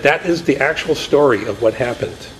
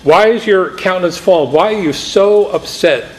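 raised, searching divine voice; voice of God questioning; 7 semitones higher than usual. Acted. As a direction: ask it as God would, higher and probing.

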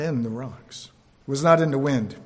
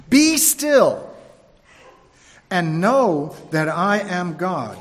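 voice of God; 3 dB louder, much slower than usual. Acted. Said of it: "Psalm forty-six, verse ten".

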